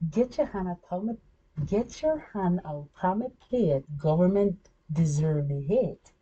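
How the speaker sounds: rhythmic recital of written bars; spoken-word performance. Acted. Reciting own lyrics to the camera, rhythmic spoken word. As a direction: deliver the verses on a steady beat.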